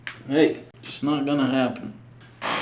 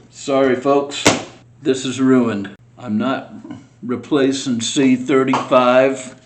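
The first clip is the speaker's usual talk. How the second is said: louder, exasperated venting at the broken part; frustrated outburst; 6 dB louder than usual. Real, not acted. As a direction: blurt out that you give up, fed up. Model part breaks, he gives up.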